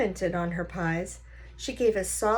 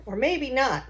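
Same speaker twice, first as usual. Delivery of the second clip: put-on old Gramps voice; 5 semitones higher than usual. Grandpa poking at a stranger's engine, confident folksy voice. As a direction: play the know-it-all grandpa tinkering.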